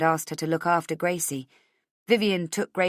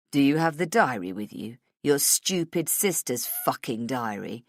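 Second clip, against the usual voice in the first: lightly voiced villain, drawing out the insult; menacing kidnapper; 4 semitones lower than usual. Kidnapper demanding the diary.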